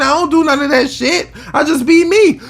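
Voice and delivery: high, laughing through the words. Real, not acted. Ending his rant to viewers with a laugh. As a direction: laugh it off while still heated.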